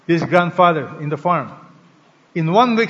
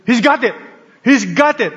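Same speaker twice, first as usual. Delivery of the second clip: higher, bright discovery cry from a retold boy; excited boy; 5 semitones higher than usual. Boy discovering the frowning donkey, excitedly exclaiming. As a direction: play the boy who finally finds it.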